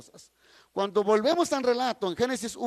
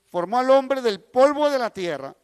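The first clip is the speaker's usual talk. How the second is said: louder, weighted "formó al hombre del polvo de la tierra"; emphatic repeat; 6 dB louder than usual. Real, not acted. Preacher telling listeners to mark the verse, emphatic on "polvo de la tierra". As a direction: press home "polvo de la tierra" in a raised, firm voice.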